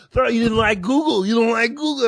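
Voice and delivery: high-pitched mock complainer; indignant heckler. Comic imitates people reacting to the Google bit, mock-indignant. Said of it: "people go".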